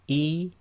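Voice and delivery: "E" with a clean glottal stop; Arabic hamza. Shown as a demonstration. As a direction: catch in the throat before the vowel. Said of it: "hamza again".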